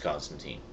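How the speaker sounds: put-on Constantine ending like "teen", said softly; pronounced con-stan-TEEN. Shown as a demonstration. Vlogger giving the movie's pronunciation, Constantine with "-teen". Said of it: "it's pronounced Constantine".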